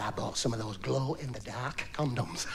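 low and slow with a giggle; girlfriend voice. Acted. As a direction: girlfriend hinting at a game.

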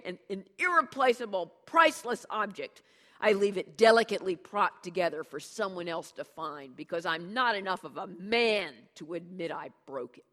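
loud, raging self-mocking rant; vicious tirade. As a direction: berate him with biting sarcasm. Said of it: "viciously you berate my brother".

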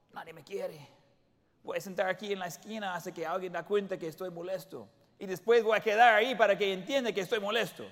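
mope in the corner, lip out; sulking. Retold or imitated. Jealous churchgoer sulking in the corner, pouty. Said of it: "pongamos un poco celoso, pongamos un poco enojado".

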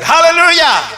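high, loud joyful cry of praise; shouted hallelujah. Real, not acted. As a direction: shout it out to lift the church.

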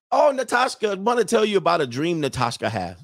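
imitated foreign girlfriend's accent, starting high; Natasha's accent. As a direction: announce it eagerly in her mock accent. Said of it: "in her accent".

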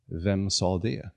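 slow, hushed and frightened; trembling fear. Acted. Jonathan asking the hidden voice who spoke, slowly and scared. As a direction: ask it as if scared of the answer. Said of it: "med darrande läppar frågade han".

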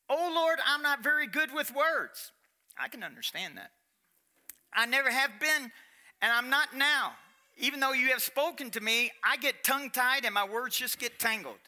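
a hint of Moses begging, voice lifted; pleading Moses. Moses begging God, lightly pleading. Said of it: "he begged God".

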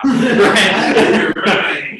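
high, loud laugh into "Right?"; laughing at his own temper. Real, not acted. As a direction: burst out laughing at yourself. Laughs at own anger story.

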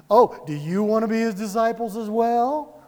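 light mocking lilt; playful first century smack; taunting. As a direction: tease them with a sly question. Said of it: "he's taunting them a little bit".

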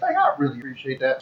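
put-on Southern accent. Guest thanking airport staff in a put-on Southern accent. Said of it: "When that southern accent comes back out".

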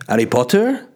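lightly imitated French accent; French-accented question, vowels shifted. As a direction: mimic a French housemate's English. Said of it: "that's a weird accent".

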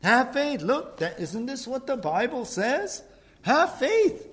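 high, coaxing devil voice; mock devil coaxing Jesus; the devil tempting. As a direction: tempt him sweetly, like the devil. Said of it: "the devil's, like, coming to Jesus saying".

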